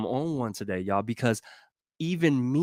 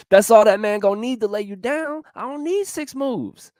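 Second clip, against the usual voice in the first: laughing; 10 semitones higher, 5 dB louder than usual. Real, not acted. Laughing repeat of the punchline.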